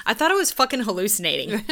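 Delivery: loud, laughing disbelief; blurting it out in shock; incredulous outburst. Retold or imitated. Friend retelling a shocking sighting, loud disbelief.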